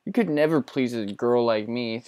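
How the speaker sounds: a hint of a ditzy Valley Girl. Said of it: "dumb Valley Girl broad thing to say".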